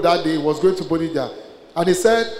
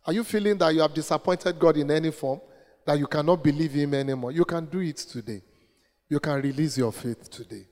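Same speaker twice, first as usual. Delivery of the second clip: tender appeal; 7 dB quieter than usual. Real, not acted. Preacher appeals softly to congregation.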